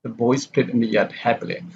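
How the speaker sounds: "happily" goes down at the close; falling intonation. Shown as a demonstration. Teacher models statement tune, falling on "happily". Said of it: "happily here is the falling intonation".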